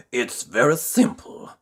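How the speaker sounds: lightly voiced tramp, friendly; kindly tramp. Tramp offering Jelly his secret, kindly. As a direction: offer it like a kind uncle.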